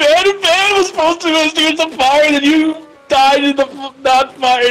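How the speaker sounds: very high, blubbering, fake crying. Answering another player who asks why they are crying: mock crying. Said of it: "Why are you crying?".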